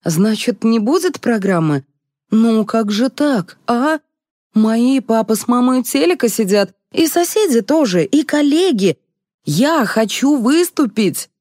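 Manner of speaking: high-pitched, plaintive protest; upset. A narrator's reading. Upset audience member learning the show is off, plaintive. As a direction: plead in a rising, let-down whine. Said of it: "расстроилась избитая зрительница".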